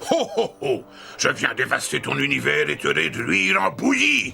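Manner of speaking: confident villain boast with a laugh; unhinged villain. Shown as a demonstration. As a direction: gloat like a cartoon villain. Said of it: "Tu dois dire tes répliques avec assurance, comme ceci". (méchant diabolique sûr de lui)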